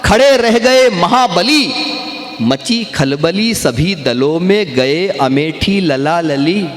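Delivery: slow, drawn-out poetic declamation; kavi sammelan recitation. Acted. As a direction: recite each line with relish, stretching the words. Recites devotional poem lines. (मंच पर कविता पाठ का धीमा, खिंचा हुआ अंदाज़)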